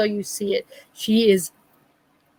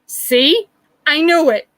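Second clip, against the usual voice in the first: retold dismay; 7 semitones higher, 5 dB louder, slower than usual.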